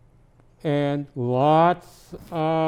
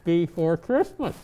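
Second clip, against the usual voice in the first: reading a Christmas poem aloud; gentle storybook reading; story narration. Acted. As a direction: read it like a bedtime tale to a child. Santa reads poem to child.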